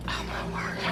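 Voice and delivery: hushed, voiceless amazement; awed whisper. Real, not acted. Cook stunned by her soup, awed whisper. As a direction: whisper it, overcome by the taste.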